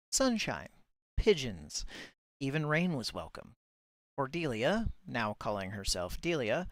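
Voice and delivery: measured audiobook-style reading; story narration. A narrator's reading. Reader presenting a submitted chapter from Bitzer, story narration. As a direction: read the chapter aloud in composed, shaped phrases.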